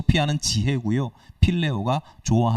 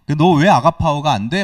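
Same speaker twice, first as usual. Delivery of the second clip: mock scolding; 3 semitones higher, 7 dB louder than usual. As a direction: play the scolding Jesus he is not, hammed up. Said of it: "막 혼내는 게 아니라".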